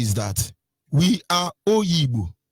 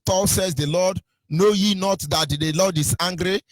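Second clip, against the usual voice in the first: mock biblical English; 2 semitones lower than usual. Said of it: "the English they were speaking was".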